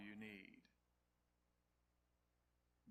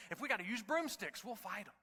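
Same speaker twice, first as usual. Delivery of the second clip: defiant lady; 8 semitones higher, 5 dB louder than usual. Retold or imitated. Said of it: "One lady said".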